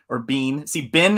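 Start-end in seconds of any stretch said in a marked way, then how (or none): 0.2-0.7 "Bean" with a long ee; bean pronunciation. Shown as a demonstration. Showing the other pronunciation, "Bean" with long ee. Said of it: "Bancroft says". 0.9-1.2 "Bin" with a short i; Southern bin. Shown as a demonstration. Showing the Southern form, "Bin" with short i. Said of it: "is, is Southern".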